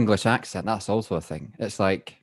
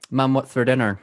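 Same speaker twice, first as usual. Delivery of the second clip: lightly hammed-up home Scottish accent; original Scottish accent; 3 semitones higher than usual. Calling to mum once Aaron's gone, home Scottish accent. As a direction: slip back into broad Scottish. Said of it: "I go back to my original state".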